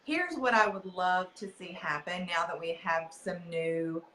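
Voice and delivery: lightly sing-song preschool teacher. Acted. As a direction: talk like you're greeting toddlers. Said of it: "you sound like a preschool teacher".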